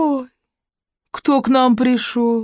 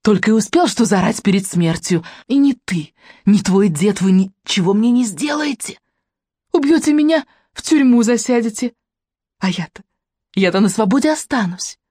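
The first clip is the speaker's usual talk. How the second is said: frenzied rant; 5 semitones higher than usual. A narrator's reading. Tomsha rages at Polina, hurling frenzied high shouts. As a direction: hurl the words at her face in a frenzy. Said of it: "В неистовстве она швыряла слова в лицо девушки".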